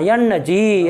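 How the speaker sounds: यन्न जी said slowly, the n doubled and held into the vowel; careful teacher's model of यन्न जी; slow model pronunciation. Shown as a demonstration. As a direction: spell out यन्न जी slowly, leaning on the long nn. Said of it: "ऐसा बोलना चाहिए ना".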